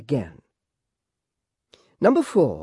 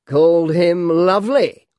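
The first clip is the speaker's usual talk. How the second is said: slow deliberate speaker; 4 semitones higher, 7 dB louder, slower than usual. A narrator's reading. Gun gentleman answers.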